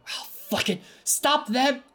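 rising to a yelled high command; angry shout. Acted. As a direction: bark the order at the guards. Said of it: "you hear the mayor's brother go".

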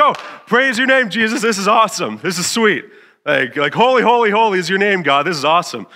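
high, loud, gushing worship; hammed-up overjoyed praise to God; elated praise. Elated praise when God agrees.

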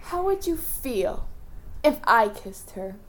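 hushed cruel tease; soft taunt. Acted. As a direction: taunt him gently, cruelly. Villain taunts softly.

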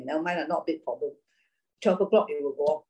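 breezy dismissal, lightly voiced; shrugging it off.

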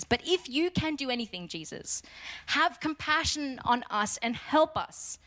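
understated begging father. Retold or imitated. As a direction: lightly plead like a desperate father. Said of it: "he's begging Jesus".

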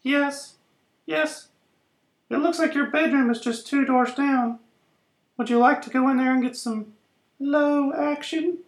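soft, low seductive murmur. Acted. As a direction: lure him in softly. Seductive come-on, quiet.

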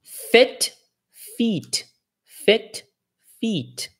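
"fit" short, "feet" long ee; fit versus feet. Shown as a demonstration. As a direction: alternate short and long vowels. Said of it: "então".

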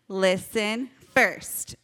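slow, measured call-and-response; leading group repeat. Shown as a demonstration. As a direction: say it slowly for the kids to join. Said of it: "Can you guys say it with me".

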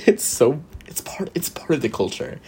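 conspiratorial whisper, breathy and secret. Real, not acted. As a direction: share it like a guilty secret. Confiding aside about the accent.

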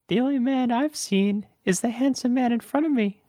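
very high falsetto flirt; exaggerated high-pitched damsel flattering a man; put-on woman voice. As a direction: coo it in a mock-female falsetto. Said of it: "can I do a woman voice?".

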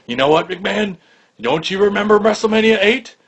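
high, needling commentator impression; Lawler. Commentator quizzing his boss about an old match, high-pitched imitation. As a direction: pipe up high with a pointed question. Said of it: "there was a question Lawler asked Vince".

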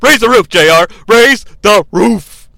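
imitated loud, hyped-up hollering; excited yelling. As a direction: start high, stretch the last phrase slowly. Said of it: "Shane embraces this appearance by yelling".

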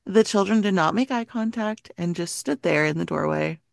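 measured scary-story reading; story narration. A narrator's reading. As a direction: read the eerie tale aloud to friends. Reads a creepy story aloud.

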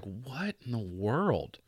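slow whispered disbelief; whispering to himself after the call, baffled. Retold or imitated. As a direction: breathe it out in quiet confusion. Own baffled reaction after hanging up.

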